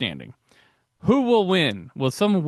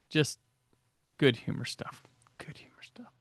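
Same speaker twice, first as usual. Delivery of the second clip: breathy whispered aside; 9 dB quieter than usual. Real, not acted. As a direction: drop to a whisper, as if telling a secret. Aside after quoting a pun.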